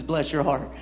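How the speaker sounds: low, lightly voiced Southern lady; a hint of polite Southern condescension. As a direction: imitate a Southern lady's veiled put-down. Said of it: "when a Southern woman says".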